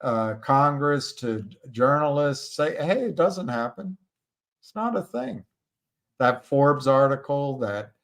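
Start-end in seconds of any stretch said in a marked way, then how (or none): 2.8-5.4 high, sneering mock of the doubters; lightly mocking singsong dismissal; mocking naysayers. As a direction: parody the deniers with a raised, dismissive voice.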